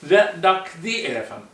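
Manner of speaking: "The duck" with thuh, "the elephant" with thee; thuh then thee. Shown as a demonstration. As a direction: switch "the" from thuh to thee before the vowel. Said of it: "theになります".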